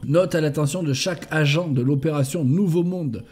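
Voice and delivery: measured, evenly intoned briefing; military report reading. Acted. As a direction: read out a mission report item by item. Reads in-game note aloud.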